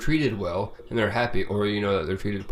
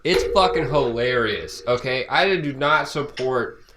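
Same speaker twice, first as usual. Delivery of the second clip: emphatic, louder; 4 semitones higher, 4 dB louder than usual. Real, not acted. Insisting while defending laughter.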